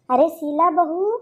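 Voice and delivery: first call, slow and drawn out. Acted. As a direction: call her name from another room, unhurried. Mother-in-law calls out to Sheela. (धीमी, खिंची हुई पुकार)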